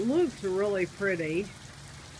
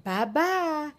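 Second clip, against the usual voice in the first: imitating aunt; 6 semitones higher than usual. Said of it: "and she said".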